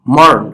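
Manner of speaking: মর্ন said firmly and held; stressed syllable. Shown as a demonstration. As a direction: hit মর্ন with force. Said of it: "এটা একটু জোরে বলতে হবে".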